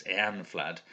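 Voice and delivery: Eanflad with the first syllable stressed; EAN-flad, stress the start. Shown as a demonstration. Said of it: "stress the first syllable".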